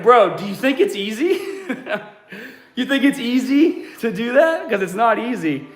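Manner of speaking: high-pitched disbelief breaking into laughs; incredulous laughing retort. Retold or imitated. Trainer answering critics of his unchanged look, incredulous and laughing. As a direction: laugh through an exasperated comeback.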